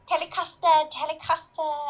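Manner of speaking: high sing-song Teletubby chant. Retold or imitated. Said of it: "they're just like".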